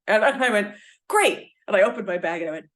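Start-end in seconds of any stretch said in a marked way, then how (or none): 1.1-1.5 high, loud gleeful great; delighted. Retold or imitated. To the flight attendant, gleefully delighted. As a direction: pounce on the offer. Delighted at three days' butter.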